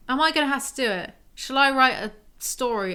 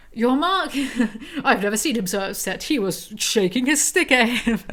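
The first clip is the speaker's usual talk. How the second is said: soap opera lady; 4 dB louder than usual. Acted. Reader voicing the mother in a hammed-up soap opera style. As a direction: gossip like a period drama matron.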